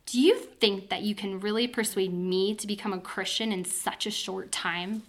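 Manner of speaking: lightly mocking question, leaping up on "you"; a mild rhetorical question, slowing and softening on "such a short time"; incredulous question. Agrippa mocking Paul's attempt to persuade him, as a doubtful question. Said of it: "better translated as a question".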